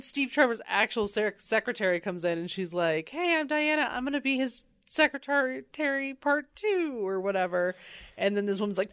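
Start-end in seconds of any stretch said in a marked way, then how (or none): 3.1-7.7 higher-pitched, lightly voiced cheery introduction; breezy newcomer. Diana introduces herself to Steve's secretary, lightly breezy. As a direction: introduce yourself with a touch of mock perkiness.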